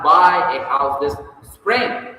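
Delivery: SPRING stretched and loud at the end; stress on SPRING. Shown as a demonstration. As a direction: save the weight for "spring". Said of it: "putting the emphasis on different words".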